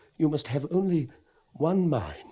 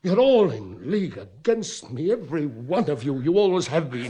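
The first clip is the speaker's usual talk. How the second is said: louder, bitter charge with a laugh in it; paranoid accusation; 5 dB louder than usual. Acted. Father accuses his whole family of plotting, bitter and raised. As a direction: accuse the whole house at once.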